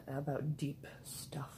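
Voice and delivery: unvoiced whisper. Real, not acted. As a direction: hush it like a secret. Confiding about deep talk.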